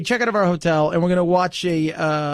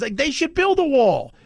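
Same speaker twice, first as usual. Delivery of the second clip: higher, retold indignation; imitated mad; 6 semitones higher than usual. Mexican immigrant argues for the wall, imitated frustration. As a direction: mimic a worked-up man. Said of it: "he was mad because he had done it right".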